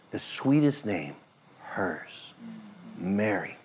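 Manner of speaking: whispered, soft and tender; gentle whisper. Shown as a demonstration. Preacher showing Jesus's tender tone, whispered. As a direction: breathe the name like a secret. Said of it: "the tone in his voice".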